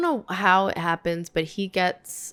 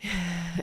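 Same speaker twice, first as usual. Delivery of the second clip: stressed sigh; 9 dB quieter than usual. Real, not acted. Stressed reaction to the story.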